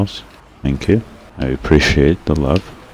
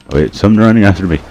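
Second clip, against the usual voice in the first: mild alarm; 4 semitones higher, 4 dB louder, much faster than usual. Real, not acted. Spots a pursuer in game.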